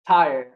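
tired said alone, leaned on with air quotes; stress on tired. Shown as a demonstration. Coach mocking the word tired, heavy stress. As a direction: lean heavily on tired as if in quotes. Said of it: "I emphasize with the quotes very, very heavily".

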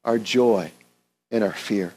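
earnest, unhurried prayer voice; pastor's prayer. Acted. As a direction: pray aloud for the congregation. Leads the closing prayer.

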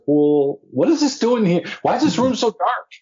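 mock-outraged high complaint about the dark room; pissed-off complaint. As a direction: replay the grumpy actor demanding answers. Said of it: "and I'm pissed".

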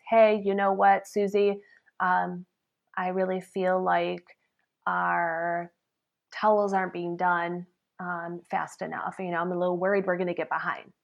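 soft, calm, considerate ask; gentle request. Shown as a demonstration. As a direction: quietly raise the concern with care.

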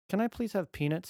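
put-on high pleading little boy; sweet begging toddler; pleading child voice. Dad voices son asking.

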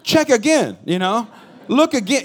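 loud, high shocked outburst; stunned disbelief. Retold or imitated. New father hearing of twins, stunned and loud. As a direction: blurt it out in shock. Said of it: "And I was like".

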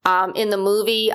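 usual speaking voice

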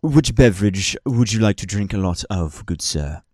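a hint of a prim, formal server; dry politeness to a rude order; lightly voiced polite bartender. Bartender asking a greedy customer, lightly prim.

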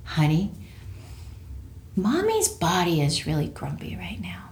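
put-on soft, calm whisper to a child; gentle whisper. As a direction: whisper it tenderly to your son. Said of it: "the tone of my voice changed".

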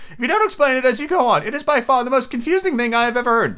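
high-pitched turtle voice; Mock Turtle figure. Mock Turtle asking to hear Alice, high character voice.

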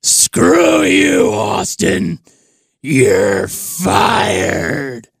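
loud, drawn-out wrestling boss shout; Vince McMahon. Acted. Boss fires his star wrestler, shouted impression. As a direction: bellow a furious, growling firing. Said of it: "this is Vince firing Stone Cold".

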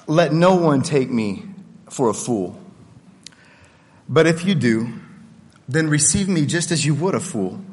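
measured, deliberate Bible reading; scripture reading. Acted. Preacher reads the chapter to his congregation, measured scripture reading. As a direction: read Paul's words out with weight.

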